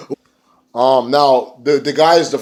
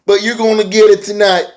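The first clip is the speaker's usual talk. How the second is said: imitating Matt Hardy; 9 semitones higher, 6 dB louder than usual. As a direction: ham up a loving yet menacing promo. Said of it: "Matt Hardy's like".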